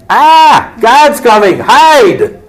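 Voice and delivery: a kid caught, hammed-up alarm; mock panic. Caught kids hearing mom arrive, hammed-up panic. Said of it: "the reaction on their part was".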